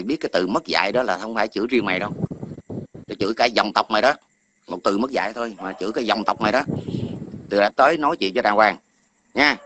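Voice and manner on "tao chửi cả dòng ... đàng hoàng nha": loud, heated berating of a troll; furious livestream scolding of a rude commenter; angry scolding. Real, not acted. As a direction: chew him out loudly. Cursing out a commenter.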